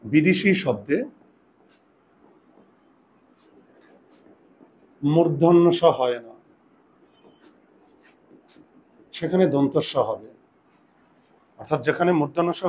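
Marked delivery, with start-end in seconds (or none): 0.0-10.3 slow, spaced dictation for writing down; slow dictation pace. Shown as a demonstration. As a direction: dictate the rule slowly so they can write. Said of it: "dictating rule five to write".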